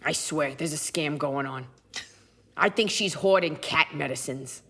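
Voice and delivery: low conspiratorial cat; lightly voiced suspicious pet; Gracie. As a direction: confide a grievance as a shady cat. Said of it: "This is Gracie".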